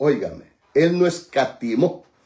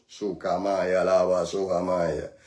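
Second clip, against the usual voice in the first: speaking in tongues; 10 semitones lower, 6 dB quieter than usual. Real, not acted.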